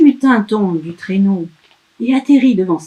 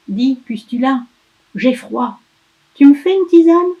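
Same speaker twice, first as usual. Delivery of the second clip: put-on higher child voice rising to a plea; wheedling elf; 5 semitones higher, 5 dB louder than usual. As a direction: ask sweetly for tea. Elf asks.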